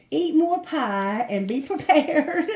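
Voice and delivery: best friend's teasing tip, slow and loud; best friend's advice. Acted. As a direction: deliver it as the cheeky best friend, slowly. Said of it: "Best friend, what message do you have".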